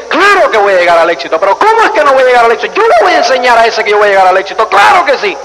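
quick, rising, defiant boast; fired-up defiance. Retold or imitated. Driver vowing to prove the tape right, fast and defiant. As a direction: rattle off a cocky vow to prove them wrong. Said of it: "coge y dice".

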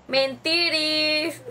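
drawn-out, very slow teasing "Mentiris"; lightly voiced imitation of a familiar catchphrase; mock impression. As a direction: stretch "Mentiris" like someone you're mimicking. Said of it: "¿A quién me parezco, Diana, diciendo esa palabra?".

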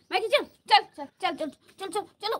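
high, insistent repeated calls; urgent calling. Real, not acted. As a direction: urge the dog along, high and loud. Urging Maggie to move. (ऊँची आवाज़ में बार-बार हाँकते हुए)

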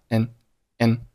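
"N" as a short reduced "and"; weak AND. Shown as a demonstration. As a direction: shrink "and" to a light "N". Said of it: "And是弱读".

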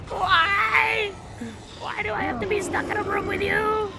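high, whiny exasperated complaint; mock exasperated whine. Whining at a game character, exasperated. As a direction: whine it like a fed-up hostage.

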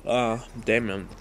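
talking through a yawn; words stretched by a yawn. Real, not acted. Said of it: "yawned, but I'm sorry".

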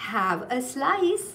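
"Have a slice" drawn out slowly, word by word; slow repeat-after-me. Shown as a demonstration. Teacher modelling a line for pupils, "Have a slice" said slowly. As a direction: stretch out "Have a slice" for learners to copy. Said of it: "Repeat after me".

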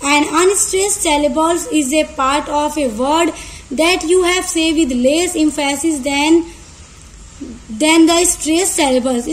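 very slow, even reading of a definition; slow dictation. Shown as a demonstration. Teacher slowly dictating an English definition to students. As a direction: read the definition out word by word. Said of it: "उसी के opposite है हमारा unstressed syllables".

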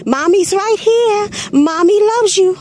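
a high, unhurried mom's reassurance; mock how calm she sounded; calm mother. Mother calling to her son in the gorilla moat, lightly imitated and calm. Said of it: "didn't sound like it to me".

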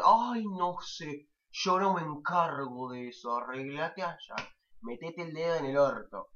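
slow, drawn-out brush-off voice; head preceptor waving off a student, mock bored; mock dismissive official.

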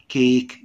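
"كيك" with a long ay in the middle; long vowel. Shown as a demonstration. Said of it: "دي حروف طويلة".

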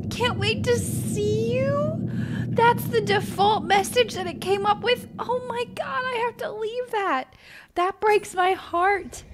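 high, teary voice close to sobbing; crying over the gravestone message; choked-up crying. Real, not acted. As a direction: let the tears break through the words. Reading the epitaph, crying.

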